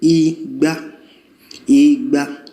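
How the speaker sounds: "Igba" level on both syllables; mid-mid tone demo. Shown as a demonstration. Teacher modelling the level re re tones of "Igba". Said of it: "That will now be what?".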